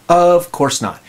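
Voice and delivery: wry, punchy correction; emphatic denial. Real, not acted. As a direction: knock down the idea with comic certainty. Punchline denying the ideal reply.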